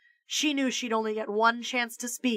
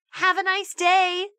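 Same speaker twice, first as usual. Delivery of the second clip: put-on girl voice; 9 semitones higher, 3 dB louder than usual. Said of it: "said Kathy's voice".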